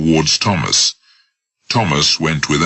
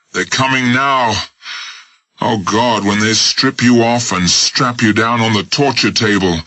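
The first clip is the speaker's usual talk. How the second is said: higher, hushed urgent voice; tense urgent warning; 6 semitones higher than usual. Acted. Smith warns Jones of coming guards, tense. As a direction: frighten him urgently.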